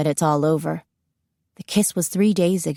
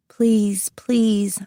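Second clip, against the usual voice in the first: whispered pleading thought; inner plea whisper; 3 semitones higher than usual. Acted. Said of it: "I think".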